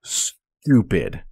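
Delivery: slow, lofty disdain; old-fashioned indignant. Shown as a demonstration. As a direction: say it like a stuffy aristocrat. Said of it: "think of ridiculous in this context more as".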